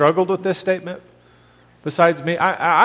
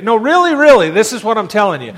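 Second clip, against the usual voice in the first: insistent paraphrase; 3 semitones higher, 4 dB louder than usual. Retold or imitated. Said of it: "That's how we would translate that".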